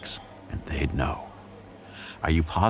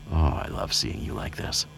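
ordinary talk, nothing marked

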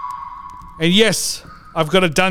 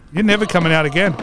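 mock shout; 3 semitones lower, faster than usual. Locking Klaus in dungeon.

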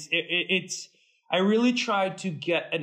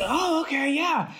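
mock amazement; 10 semitones higher than usual. Reacting to four of each suit.

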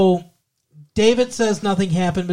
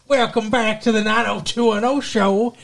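Yankee voice; 3 semitones higher than usual. Acted. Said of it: "Stop putting on that Yankee voice".

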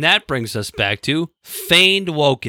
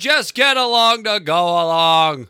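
sarcastic; 4 semitones higher, slower than usual. Acted. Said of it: "that was sarcasm".

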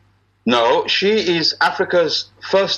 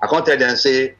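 Nigerian Pidgin lilt; easy Naija Pidgin speech; Nigerian broken English. Shown as a demonstration. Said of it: "You getting my broken English".

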